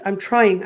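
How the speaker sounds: "trying" leaned on, its tune falling at the end; stress on trying. Shown as a demonstration. Guest confessing she is only trying, stressing "trying". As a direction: put your weight on the word "trying". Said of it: "I emphasize the word trying".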